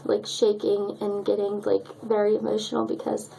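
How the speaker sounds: struggling to get the words out, really choked up. Real, not acted. Telling viewers about her miscarriage, choked up and near tears. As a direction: voice catching, holding back tears. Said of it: "I'm choked up".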